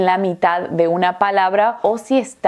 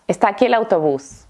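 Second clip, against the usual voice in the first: ESTÁ AQUÍ EL AUTOBÚS run together as "estakielautobús"; quick connected speech, vowels merged; très rapide; faster than usual. Shown as a demonstration. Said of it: "Lo voy a decir muy rápido".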